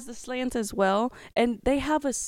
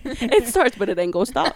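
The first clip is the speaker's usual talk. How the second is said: laughing through the punchline; 8 dB louder than usual. Pretend. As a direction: say it while cracking up. Joking car threat, laughing.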